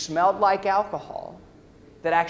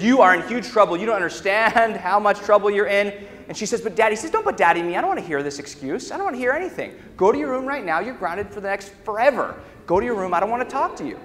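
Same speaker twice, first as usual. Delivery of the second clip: stern raised scolding voice; a mock angry father telling her off; 4 semitones higher, faster than usual. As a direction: scold her like a furious dad. Father scolding daughter in story.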